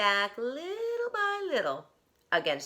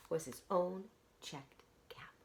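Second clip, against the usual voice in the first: dismayed whisper; 11 dB quieter than usual. A narrator's reading. Storyteller whispers the peddler's loss. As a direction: whisper the bad surprise. Shock of missing caps.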